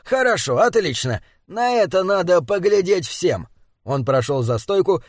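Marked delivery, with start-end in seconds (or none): 0.0-3.5 lively, higher-pitched approval; animated. Acted. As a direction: perk up with eager interest. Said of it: "оживился Боб". (оживлённо)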